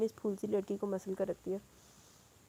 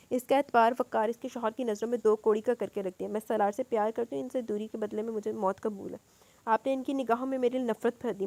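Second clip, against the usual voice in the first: sharp tearful tone. Acted. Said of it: "روتے ہوئے تیز لہجے میں کہا".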